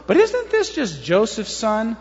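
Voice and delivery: slow, mildly sceptical question; doubt. Shown as a demonstration. Crowd questioning the carpenter's son, mildly doubtful. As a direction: question it slowly, not quite buying it. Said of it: "If it was a doubt statement, it would go something like this".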